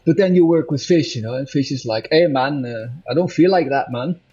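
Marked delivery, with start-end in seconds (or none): 2.1-4.2 light Scottish accent, imitating the singer's casual tone; hint of a laid-back Scottish singer. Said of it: "my Scottish accent".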